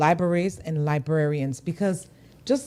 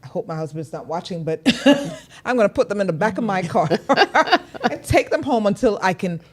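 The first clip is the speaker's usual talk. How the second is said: laughing; 2 semitones higher, 4 dB louder than usual. Real, not acted. Laughing through the confession.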